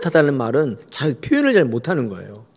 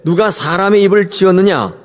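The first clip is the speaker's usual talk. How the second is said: voice of God. Acted. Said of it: "여호와께서 그에게 이르시되".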